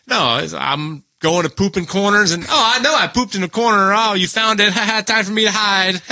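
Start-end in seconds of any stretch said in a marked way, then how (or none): 2.5-6.0 high, sly voice for a sneaky dog, with a laugh; mock dog voice. Telling friends about the dog that pooped in corners, in a high mocking dog voice. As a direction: play the guilty dog pleased with itself. Voicing the dog hiding poop.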